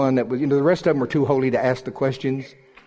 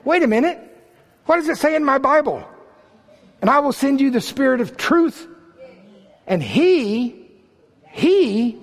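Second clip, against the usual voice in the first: high-pitched, raised preacher's voice; full-force preaching; 12 semitones higher, 4 dB louder than usual. Real, not acted. Preacher exclaiming to God and congregation over scripture, impassioned. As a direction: cry it out, holding the emphatic words high.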